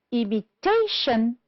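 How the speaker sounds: "imitation" with TA stressed and drawn out; stress on third syllable. Shown as a demonstration. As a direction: slowly model "imitation", landing on TA. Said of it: "stressed on the third syllable".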